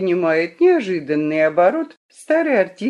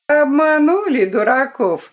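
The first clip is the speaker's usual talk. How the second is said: mocking taunt; 8 semitones higher, 6 dB louder than usual. Girl mocks from hiding.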